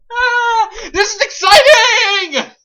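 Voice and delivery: high, loud laughing shriek; hammy stage actor. Acted. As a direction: scream it in mock delight. Mocking overexcited reading.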